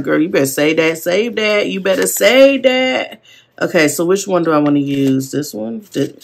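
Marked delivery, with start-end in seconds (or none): 0.0-3.2 retold hype, climbing higher with each repeat; восклицание подруге. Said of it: "'Cause I was like".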